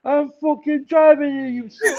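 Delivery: screaming in road rage; furious shout. Retold or imitated. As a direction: yell it like an enraged driver. Retold road rage outburst.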